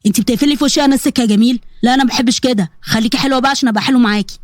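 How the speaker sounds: lightly voiced sly male caller; menacing blackmailer. Blackmailer to the girl who hung up, sly menace. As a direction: coax her with a hint of threat. Samir threatens Salma on the phone.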